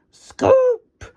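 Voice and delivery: very high urgent call; high alarmed shout of Scoop's name; yelling. Acted. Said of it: "yelled Muck".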